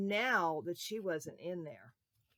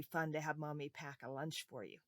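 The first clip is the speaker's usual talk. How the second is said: whisper; 5 semitones lower, 7 dB quieter than usual. Acted. Cosy aside about mommy's lunch.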